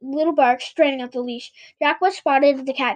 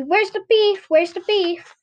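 clear, higher, repeated prompt; said clearly; 7 semitones higher, slower than usual. A narrator's reading. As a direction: enunciate it as if teaching a bird. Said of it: "said clearly".

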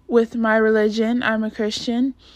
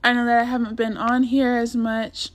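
raspy, hoarse and scratchy. Real, not acted. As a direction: talk through a rough throat. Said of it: "excuse my voice".

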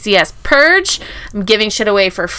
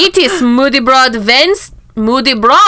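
fake German accent. Podcast host opening the show in a light fake German accent. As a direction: keep the mock German going. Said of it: "fed up with my fake German accent".

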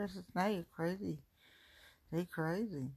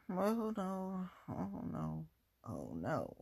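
mock dread; 4 dB quieter, slower than usual. Dread over undone tasks.

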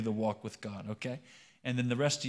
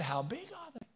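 high, softer Cajun character voice; Cajun accent; 12 semitones higher, 6 dB quieter than usual. Acted. Boudreaux asking Thibodeau once more, high Cajun accent. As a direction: ask it high and small, in Cajun. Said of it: "start talking like a Cajun".

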